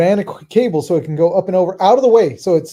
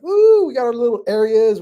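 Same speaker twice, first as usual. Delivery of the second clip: higher, louder giddy little cheer; mock excited cheer; 7 semitones higher, 6 dB louder than usual. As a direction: squeal it like kids unpacking. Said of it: "we're all happy".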